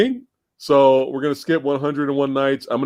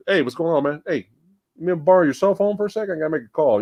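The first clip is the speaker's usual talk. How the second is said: higher, quick everyday patter; casual monster chat; 4 semitones higher, faster than usual. Acted. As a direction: play the monster as a guy asking a favor. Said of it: "I wasn't used to him just".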